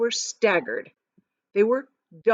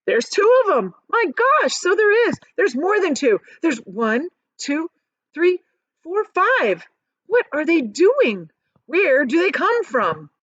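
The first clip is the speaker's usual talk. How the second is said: much higher, louder crowd shouting; shouting at once; 8 semitones higher, 4 dB louder, slower than usual. A narrator's reading. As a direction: shout over each other in amazement. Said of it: "everybody started shouting at once".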